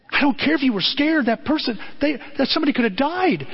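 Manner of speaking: high, rising rebuke of a frightened son; angry father. Retold or imitated. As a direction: scold him with the pitch flying up.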